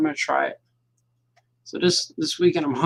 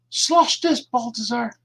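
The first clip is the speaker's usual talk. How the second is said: teasing critic voice; 7 semitones higher, slower than usual. Acted. Taunting critic voice.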